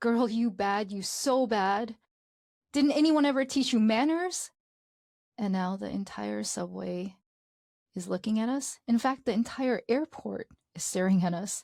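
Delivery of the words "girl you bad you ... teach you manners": mock scolding yell, losing control, outburst. Retelling a scolding of a cashier, imitating mom yelling. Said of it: "She starts yelling".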